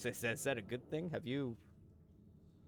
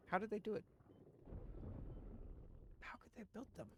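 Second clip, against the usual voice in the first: high falsetto wondering, fading softer; mock baffled; 10 semitones higher, 8 dB quieter, faster than usual. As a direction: puzzle over it in a tiny high voice. Keeps mimicking baffled question askers.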